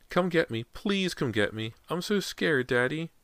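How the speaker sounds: put-on high, pleading little-boy voice; scared child. A narrator's reading. Trapped boy begs Daddy for rescue, high and scared. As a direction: beg in a small high voice.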